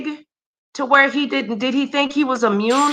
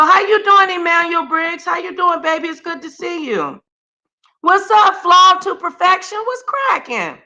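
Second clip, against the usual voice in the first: excited greetings; 7 semitones higher than usual. Real, not acted. Greeting viewers in chat.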